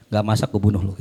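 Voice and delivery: mock-tender, low-pitched menace; gentle-voiced threat. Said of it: "Tuh, ngomongnya lembut".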